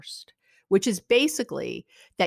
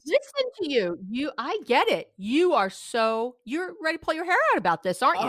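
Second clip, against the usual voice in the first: validating sympathy; 5 semitones higher than usual. Shown as a demonstration. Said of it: "That's all you do".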